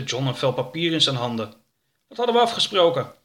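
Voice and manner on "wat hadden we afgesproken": quick, sharp scolding; annoyed wife demanding an answer; stern wife. Acted. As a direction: scold him fast and high. Angry wife confronts John.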